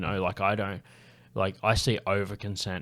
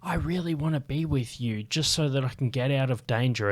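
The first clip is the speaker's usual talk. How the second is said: imitating someone faking keenness, pitched up; staged eagerness to get away; fake enthusiasm; 5 semitones higher than usual. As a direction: play along, higher-voiced, feigning interest. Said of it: "you can fake enthusiasm".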